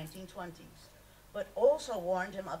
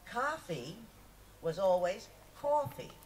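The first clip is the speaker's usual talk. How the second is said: put-on Brooklyn accent; 3 semitones higher, 4 dB louder than usual. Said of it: "Brooklyn hadn't left him".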